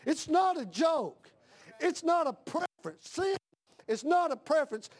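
"not" hit high and hard each time; stress on not. Real, not acted. Preacher insisting to the church that sin is no preference, stress on not. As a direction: punch "not" every time.

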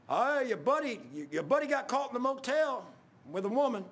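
high-pitched jeering taunt; mocking. Coworker taunting the preacher over his buddy, mocking. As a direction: crow it high like a gleeful taunt. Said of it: "they all started mocking".

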